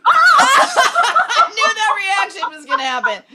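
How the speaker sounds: high, loud, slow words through laughter; can barely talk for laughing; laughing hard. Real, not acted. Laughing at teammate's guesses.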